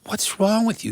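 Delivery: high, pleading queen voice; a wife fretting over her husband; worried queen. Acted. Queen asks king again.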